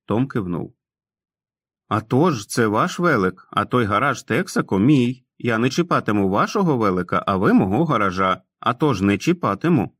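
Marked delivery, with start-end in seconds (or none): 1.9-10.0 put-on sheepish grown man who talks like a boy; childlike Tom. (несміливий дитячий голос Тома)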